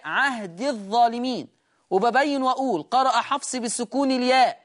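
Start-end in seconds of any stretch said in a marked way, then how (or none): 0.0-1.5 عهد الظالمين joined, the ya dropped; short i linking عهد to doubled ظ of الظالمين; Hafs reading. Shown as a demonstration. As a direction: glide from عهد straight into الظالمين. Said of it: "حفص يقرأ بسكون الياء".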